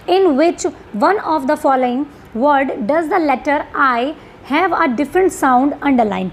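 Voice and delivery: slow, deliberate English reading; question read-out. Real, not acted. Teacher reads the question to students, slow read-out. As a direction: read the exam question out slowly, word by word.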